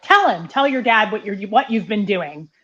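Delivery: retold scolding with hard stresses; really angry. Angry woman orders girl to confess to her dad, scolding. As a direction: lay the blame with punched words. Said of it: "she was just really angry".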